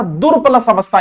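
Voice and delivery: दुर प्लस अवस्था, with दुर stressed and falling; दुर said with a half r, then अवस्था; split into parts. Shown as a demonstration. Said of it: "दुर में ये रह है हलंत वाला".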